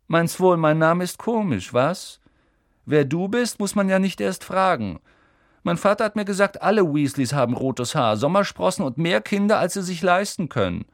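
mock Ron's family with relish; sneering Malfoy. A narrator's reading. Malfoy sneers at Ron's poor family, mocking.

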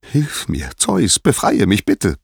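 pleading, rising in pitch toward the end; acted appeal of a trapped goddess; horrified plea. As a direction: beg for rescue with mild horror. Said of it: "bat Hera entsetzt".

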